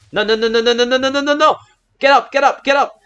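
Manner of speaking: very high, loud frantic no's; panicked screaming. Real, not acted. Watching his monster sink, real high panicked shrieks. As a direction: shriek as your monster goes down.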